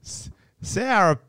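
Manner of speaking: hammed-up Southern American; American accent. Shown as a demonstration. Reading the nurse story to his co-host in a put-on Southern accent. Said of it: "I gotta do an American accent".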